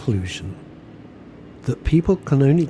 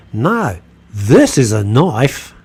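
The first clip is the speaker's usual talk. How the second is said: slow, drawn-out, louder mock Aussie tough guy; a light send-up of the famous knife line; Crocodile Dundee; 7 dB louder, much slower than usual. Host mocking the heckler with a lightly voiced Aussie. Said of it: "a poor version of Crocodile Dundee".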